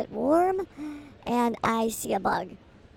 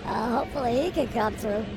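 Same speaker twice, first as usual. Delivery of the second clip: play-by-play. Acted. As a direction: call it like a radio announcer. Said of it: "I'm gonna go play by play".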